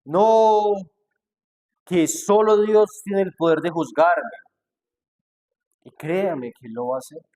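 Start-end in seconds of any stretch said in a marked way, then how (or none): 0.0-4.4 higher, louder mock protest; defensive protest. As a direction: toss back a defensive objection. Mock protester answering the preacher. (objeción a la defensiva, más aguda y fuerte)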